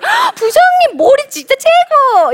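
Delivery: very high, loud, drawn-out gushing praise; hammed-up fake admiration for the boss; over-the-top flattery. (과장되게 아부하는 목소리)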